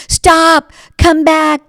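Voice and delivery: high, loud shout. Acted. Jazz player chases the beignet boy, loud high shout. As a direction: yell after the runaway.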